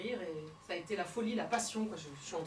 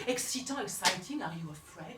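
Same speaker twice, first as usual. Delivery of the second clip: murmured; 3 semitones lower than usual. Acted. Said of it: "il murmure".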